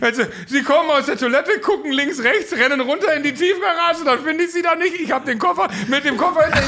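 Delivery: a stranger's high, loud rant, half laughing; indignant stranger. Retold or imitated. Stranger who guarded the suitcase, high indignant explanation. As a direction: explain it like you can't believe it. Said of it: "hörte es auf einmal Typen so".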